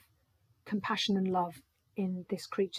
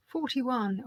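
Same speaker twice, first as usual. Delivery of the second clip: bingo caller; 4 semitones higher, 3 dB louder than usual. Acted. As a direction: sing out the number like bingo. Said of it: "I sound like a bingo caller".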